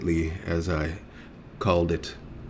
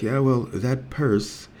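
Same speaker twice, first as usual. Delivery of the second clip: slow pointed retort; 3 semitones higher, slower than usual. Retold or imitated. Arguing with staff.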